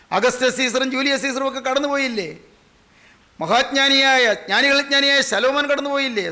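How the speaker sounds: rhetorical questions rung out to a congregation; full-voiced preaching. Real, not acted. Preacher asking whether Caesar and Solomon passed away, declamatory preaching. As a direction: drive each question home from the pulpit. Preacher lists the great dead.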